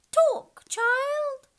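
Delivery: high, loud call; loud, high unicorn command; commanding cry. Acted. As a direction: bark the order out high and strong.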